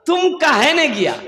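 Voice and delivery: puzzled questioning. Acted. Speaker questions the remaining youth.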